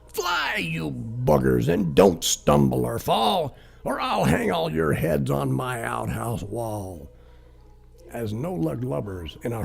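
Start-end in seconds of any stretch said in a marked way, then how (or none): 0.0-7.1 high, calling out to the team; rally the deer like a rowdy pirate. Acted. Pirate calling his deer by name.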